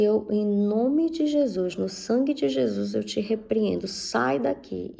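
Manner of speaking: stern prayer of rebuke, slowed on sai daqui; commanding rebuke. Retold or imitated. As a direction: cast the spirit out with slow authority, understated. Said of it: "Eu disse".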